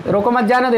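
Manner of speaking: "रोको मत" joined as one phrase, then "जाने दो"; no comma pause. Shown as a demonstration. Teacher asking students what it means, "रोको मत" unbroken. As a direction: run "रोको मत" together, meaning don't stop him. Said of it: "कहीं कामा में नहीं लगा".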